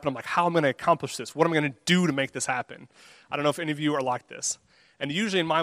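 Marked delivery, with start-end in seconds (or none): 0.2-2.9 quick, mildly keyed-up self-questioning; eager rush of planning, lightly acted; fired up. Preacher quoting his own excited reaction to a verse, fired up. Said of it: "I really get fired up".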